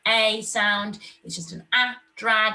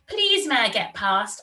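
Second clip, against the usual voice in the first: put-on a touch higher, pleading little girl; girl pleads with the fox to pass; 6 semitones higher, 4 dB louder than usual. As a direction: ask politely, pleading. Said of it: "I pleaded".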